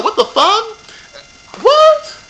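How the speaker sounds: high, drawn-out shocked disbelief; rising into a loud stunned what; shocked boyfriend. Retold or imitated. Imitating the boyfriend hearing the cheating, shocked. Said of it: "He was like".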